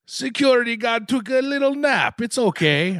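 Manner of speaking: Triumph the Insult Comic Dog. Acted. Host voicing a cover story about the guard, comic dog voice. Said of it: "It sounded like Triumph, the insult comic dog".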